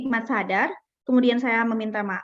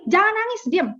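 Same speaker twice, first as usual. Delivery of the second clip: parent hushing; 9 semitones higher than usual. Retold or imitated. Parent hushing a crying child.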